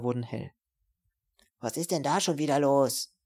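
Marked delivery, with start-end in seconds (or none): 1.6-3.1 yelled from a window. Acted. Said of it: "schrie eine Stimme".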